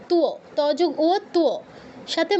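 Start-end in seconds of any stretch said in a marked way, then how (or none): 0.1-0.3 তুও as two, the w pronounced; sounded w. Shown as a demonstration. Teacher models Sanskrit for students, তুও with w sounded. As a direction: voice the w after t in তুও. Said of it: "ওটাকে উচ্চারণ করতে হবে".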